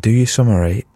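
voiceless whisper. Shown as a demonstration. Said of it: "Try it whispering".

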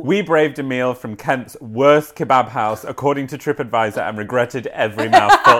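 reading a news article aloud, lightly amused. Acted. Presenter reading a kebab story to her co-host, lightly amused. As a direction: read the story out like a presenter, suppressing giggles.

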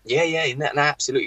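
over-eager yes. Retold or imitated. Young player eagerly telling a scout he has a long throw. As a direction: jump at the offer, keen to please. Eagerly agreeing to fake agent.

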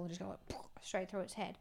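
whispered and low. Real, not acted. Explaining how she would kill a goat, in a whisper. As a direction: drop to a whisper for the grim part. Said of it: "describing shooting a goat".

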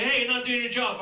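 mock indignant American. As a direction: call someone out, American style. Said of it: "The Americans go crazy".

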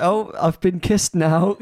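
slow, lightly voiced indifference; a hint of a blank puppet; deadpan puppet. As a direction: say it like an unmoved puppet. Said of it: "She's like".

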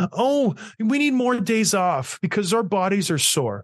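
high, mock-whiny spoiled player voice; hammed-up whining of pampered players. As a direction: imitate a spoiled athlete begging, nasal-free but whiny. Mocking players' demands.

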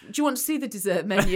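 quick, breezy waiter line through laughter; oblivious waiter. Retold or imitated. Waiter offering the dessert menu, quick and breezy. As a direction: rattle it off like the clueless waiter. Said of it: "He literally went".

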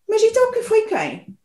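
high shouted question; moose bellow. Acted. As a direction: bellow it up the tree. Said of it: "Berrou o alce".

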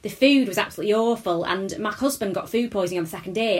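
lightly imitated northern English accent; imitating a northern English woman having a rant. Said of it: "one of them had this lovely northern accent".

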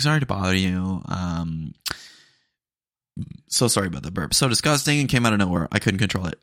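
light Valley Girl accent imitation; a hint of Valley Girl sweetness. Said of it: "She had a Valley Girl accent too".

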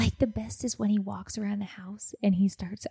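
unvoiced hushed whisper. Real, not acted. To Tiffany, hushed whisper so husband won't hear. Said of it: "I'm whispering".

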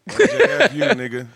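loud, high burst of letters; forceful, impatient repeat; aggressive. Real, not acted. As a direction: shout the name back aggressively. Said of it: "It was very aggressive".

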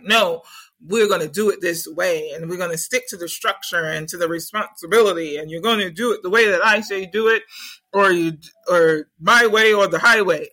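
bossy elder, my way or the highway; stern elder Saturn. Retold or imitated. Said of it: "And Saturn is like".

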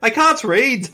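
little kid in mock Irish; Irish accent. Child telling Daddy they can't read, Irish accent. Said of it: "I have a better Irish accent than you".

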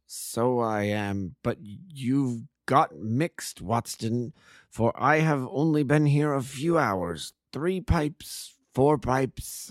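lightly voiced befuddled opium smoker, drawn out; a hint of a muddled man waking from a stupor; dazed addict. Dazed addict slowly asks Watson the time, lightly voiced. Whitney rambles, drugged and ashamed.

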